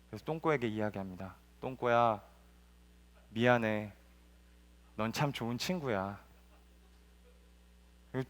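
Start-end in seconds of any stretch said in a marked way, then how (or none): 1.6-6.2 soft, gentle apology; a soft, sincere sorry; tender apology. Acted. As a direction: make up with an old friend, softly.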